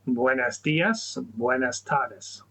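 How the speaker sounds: slow, careful beginner Spanish; Spanish learner. Shown as a demonstration. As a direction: sound out buenos dias and buenas tardes slowly. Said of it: "Why don't you give those a try?".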